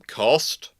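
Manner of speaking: ordinary talk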